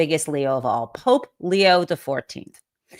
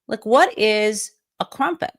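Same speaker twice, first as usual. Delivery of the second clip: baffled; 7 semitones higher than usual. Retold or imitated. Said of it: "And I'm like".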